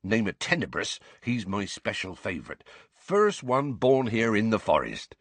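rustic gamekeeper addressing his class; hearty, informal teacher with a country lilt; lightly voiced Hagrid, genial gamekeeper.

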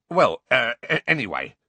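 stammering attempt to move on; hesitant, stumbling restart; slightly flustered. A narrator's reading. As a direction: trip over the words, a little thrown. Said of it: "looking slightly flustered".

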